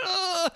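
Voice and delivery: sudden high-pitched anguished cry. Retold or imitated. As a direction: let out a sharp, high wail. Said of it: "and I'm like".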